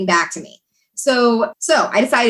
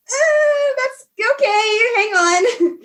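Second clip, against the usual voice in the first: flustered receptionist; 13 semitones higher, much slower than usual. Retold or imitated.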